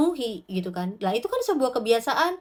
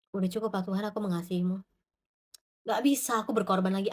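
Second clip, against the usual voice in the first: weary prayer; 5 semitones lower, 6 dB quieter, faster than usual. Retold or imitated. Weary believer praying.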